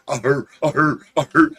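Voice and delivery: huffing big-dog gallop noise; imitated galloping dog. Telling how the big galoot came running, imitated dog huffs. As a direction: mimic a galoot of a dog bounding along.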